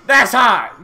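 loud, high, laughing cheer; excited shout. Real, not acted. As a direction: shout it out, slow and delighted. Cheering subscription news, laughing.

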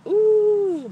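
sudden high exasperated ooh; a pained, disbelieving yelp up high. Real, not acted. Woman hit with bad luck, high pained ooh.

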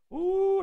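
high joyful ooh; ecstatic whoop. Real, not acted. Preacher whooping over the verse, high and joyful. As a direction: cry out with sudden joy. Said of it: "preacher's ecstatic exclamation".

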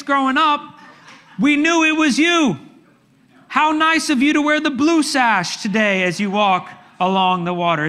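high-pitched, hammed-up storybook greeting; mock-pleased, overdone welcome; mock delighted disciples. Mock cheerful misreading of disciples.

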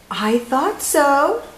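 slow, smiling and knowing; said with a smile. Acted. Old woman to Camilla, slow and smiling. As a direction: let the smile be heard. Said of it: "the old woman said with a smile".

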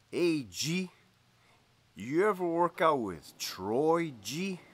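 a hint of a swooning coworker; gushing coworker asking about Troy, lightly voiced; Greñas voice. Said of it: "This is how the whole conversation went".

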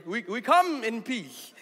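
slow, hammed-up missionary voice for the chief; mock captain talking slowly to the village chief; exaggerated foreigner-talk voice. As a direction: overdo the slow put-on voice you use with non-English speakers. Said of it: "Why do you change your voice when you speak to people who don't speak English".

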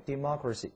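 "democracy" read out with stress on MOC; "democracy" leaning on its second syllable. Shown as a demonstration. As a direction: repeat "democracy" as de-MOC-racy for learners. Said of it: "再读一遍".

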